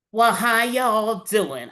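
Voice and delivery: put-on a touch of a cheeky clown girl drawling hello; Harley Quinn greeting. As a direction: stretch out "Well, how y'all doing?" playfully as a light Harley. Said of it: "I'm Harley Quinn".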